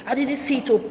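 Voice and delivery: high mocking mother's voice; imitating her mother. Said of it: "what she told me".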